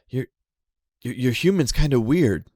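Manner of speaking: cheeky little animal gossiping; raccoon voice. Acted.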